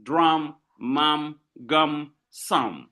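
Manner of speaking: Drum, mum, gum, sum as separate beats with matching -um endings; evenly spaced Drum, mum, gum, sum; rhyming word list. Shown as a demonstration. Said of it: "You see the same sound".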